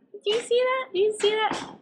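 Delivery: high-pitched, indignant disbelief; real, high incredulous questioning. Real, not acted. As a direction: call someone out in disbelief, pitch jumping up. Calls out the co-host's look mid-story.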